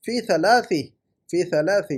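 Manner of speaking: ثلاثی with a clear final "-i"; correct case ending. Shown as a demonstration. Teacher shows the preposition's effect, correct case ending. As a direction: model ثلاثی twice, ending in "-i". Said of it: "تو فی کا effect ڈالیے".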